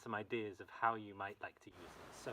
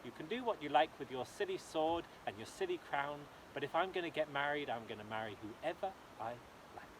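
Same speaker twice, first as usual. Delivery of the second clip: defiant daughter. Acted. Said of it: "said Jem de Lovely".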